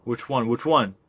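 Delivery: can't wait to know; eager question. Acted. Buddy pressing for details.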